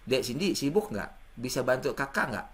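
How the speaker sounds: gentle, polite ask for help; considerate request. Shown as a demonstration. Older brother asks little sister for help, gentle polite request. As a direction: check kindly before asking a favour. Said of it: "Cara kedua".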